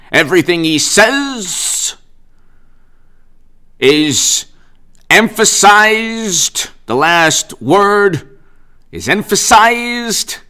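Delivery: slow with long pauses, last word emphasized stretched high; pause, then hit emphasized; dramatic pauses. Shown as a demonstration. Vlogger demonstrating the governor's dramatic pauses on emphasized. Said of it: "he gives the dramatic pauses".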